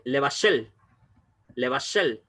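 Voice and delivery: "levashel" with the first e nearly silent; reduced e. Shown as a demonstration. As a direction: clip the e in "levashel" almost away. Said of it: "casi ni se pronuncia la E".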